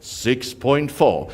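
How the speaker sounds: drawn-out slow bid call. Shown as a demonstration. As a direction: stretch the number out slowly. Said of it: "Must I slow down a little bit?".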